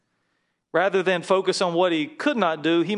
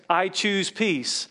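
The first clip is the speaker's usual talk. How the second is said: slow model line; 3 semitones higher, much slower than usual. Shown as a demonstration.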